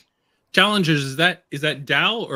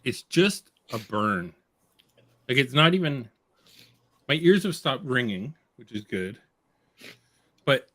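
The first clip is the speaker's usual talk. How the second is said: mouth burning from spicy food. Real, not acted. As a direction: talk through the chili burn. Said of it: "So what are you feeling right now".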